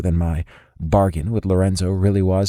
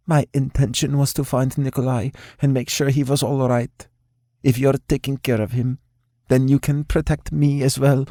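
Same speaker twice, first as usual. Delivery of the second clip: higher, firm and self-assured; determined young woman; 6 semitones higher than usual. A narrator's reading. Alina demands protection from Remington, higher and firm. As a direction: push your demand politely. Alina argues her case.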